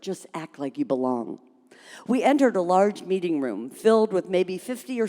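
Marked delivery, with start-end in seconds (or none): 0.0-1.4 softly, under the breath; whispered. Acted. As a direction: say it low so nobody hears. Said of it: "she whispered".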